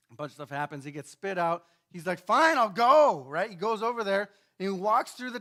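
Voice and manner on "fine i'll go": grudging huff. Retold or imitated. Jonah grudgingly agreeing.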